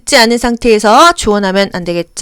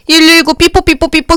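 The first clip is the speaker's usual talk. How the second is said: mock siren; 6 semitones higher than usual. Imitating siren noise.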